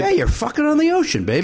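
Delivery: high, playful hype-man delivery; mock hype. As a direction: sell it big, as a joke. Hyping the book's sex scene.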